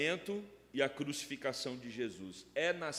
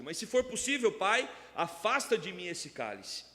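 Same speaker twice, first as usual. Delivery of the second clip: raised, emphatic pulpit delivery; forceful preaching; 6 semitones higher, 5 dB louder than usual. Real, not acted. Pastor teaching on Jesus' prayer, forceful preaching. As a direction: preach it with conviction, voice lifted.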